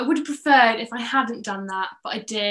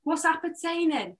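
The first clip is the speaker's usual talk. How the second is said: slow, quiet Welsh drawl; deadpan Welsh accent, drawn out; Nessa impression; 5 semitones higher, 5 dB quieter than usual. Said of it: "I can do a Nessa".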